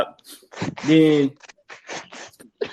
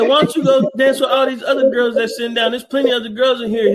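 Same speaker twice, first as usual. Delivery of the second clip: put-on raised voice for the girl; mock girl voice, pitched up; quoting a girl; 8 semitones higher than usual. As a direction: play the girl teasing him. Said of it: "She said".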